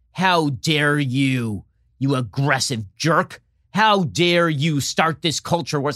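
very slow, drawn-out pretend indignation; mock outrage. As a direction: ham up the offended accuser. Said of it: "And then you're like".

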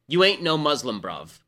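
lightly attempted Cockney yell; Cockney accent. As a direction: imitate a Cockney heckler, only lightly accented. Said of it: "have to do it in a Cockney accent".

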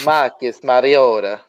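slow, drawn-out Italian accent on Marcus Mariota. Shown as a demonstration. Cohost asks for the name in an Italian accent. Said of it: "Say it with the Italian accent".

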